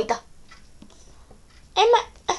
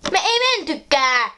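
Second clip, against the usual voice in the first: mild acted yell, pitched higher; complaining yell; 4 semitones higher than usual. Teen complaining about the cancelled train trip, mild yell. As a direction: raise your voice in protest, pitch jumping up. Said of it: "No älä nyt sentään huuda".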